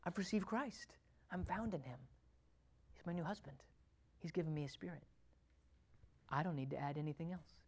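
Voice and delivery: quiet conviction. Acted. Believer affirming faith, quiet and settled. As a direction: drop to a calm, quiet certainty. Quiet confession after outburst.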